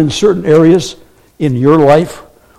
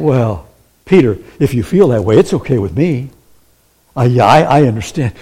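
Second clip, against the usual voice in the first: lower, gentle and shrugging; mock soft, easygoing God; 4 semitones lower than usual. Preacher mocks a soft God letting Peter off, mild. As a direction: play a pushover, meekly agreeing. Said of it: "God is not saying".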